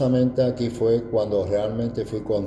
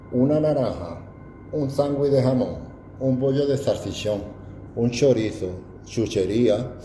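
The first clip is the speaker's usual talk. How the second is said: exaggerated Andalusian accent; 2 semitones higher than usual. Answering friends who want to hear it, exaggerated Andalusian accent. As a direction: lean into the Andalusian accent to show it off. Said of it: "acentuaba más para que sonara profundo".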